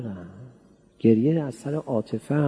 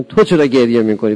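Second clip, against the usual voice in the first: angels asking; 10 dB louder than usual. Acted. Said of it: "ملائکه میگن".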